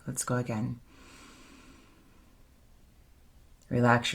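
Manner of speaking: unhurried, slightly softened meditation voice; guided meditation. Acted. Leader guiding the circle back into their bodies with breath, guided meditation. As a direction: guide them into the breath, leaving long pauses.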